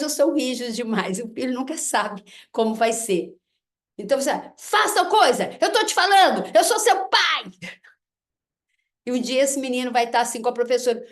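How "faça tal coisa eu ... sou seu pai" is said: higher and louder, laying down the law; stern authoritarian father. Retold or imitated. Father ordering his son, higher and louder, strict and commanding. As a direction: bark the order like a rigid dad pulling rank.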